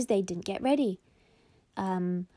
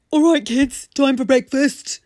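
loud, higher barked call; yelly mum voice; 6 semitones higher, 11 dB louder than usual. Acted. Mummy calls the kids to breakfast, yelling. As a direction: holler it to the whole house. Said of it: "quite the opposite of the squeaky one".

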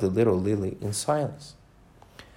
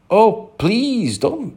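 high, slow, mildly amused plea; lightly voiced giggly Alice; Alice crying out; 10 semitones higher, 5 dB louder, much slower than usual. A narrator's reading. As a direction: beg him to stop while half laughing. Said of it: "she cried out".

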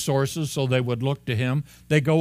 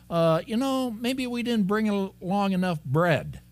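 mock worried disciples; 8 semitones higher than usual. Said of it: "they're going".

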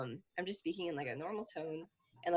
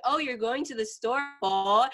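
mock-questioning, with "po" punched louder; mom's pointed echo; 2 semitones higher, 4 dB louder than usual. Mom repeating the child's words back, pointed questioning. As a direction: echo it back and hit "po" as a challenge. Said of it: "And then she's like".

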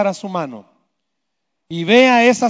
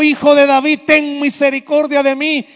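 retold cry; 5 semitones higher than usual. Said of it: "cuando él gritó".

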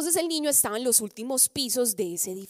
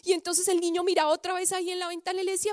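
ordinary talk, nothing marked

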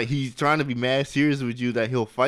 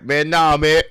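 louder mock-firm refusal; manning up; 3 semitones higher, 6 dB louder, slower than usual. Tempted man refuses the crying suitor, mock manly firmness. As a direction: put your foot down, playfully. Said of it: "mans up and be like".

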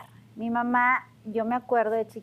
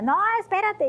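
put-on shrill-free high squeaky protest from a little girl; high protesting friend; 12 semitones higher, 5 dB louder than usual. A friend protesting at doll play, in a high squeal.

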